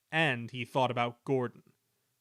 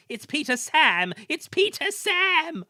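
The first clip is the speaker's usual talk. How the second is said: frantic warning; 8 dB louder than usual. A narrator's reading. Trucks cry warning.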